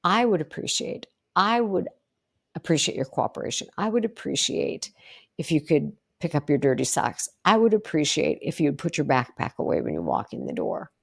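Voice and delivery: steady, even and confident; assertive, calm. Shown as a demonstration. Coach demos asking kids politely, calm assertive. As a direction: state it plainly and kindly. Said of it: "Being assertive is".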